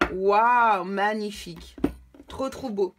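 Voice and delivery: delighted wow. Real, not acted. Card revealed, delighted exclamation.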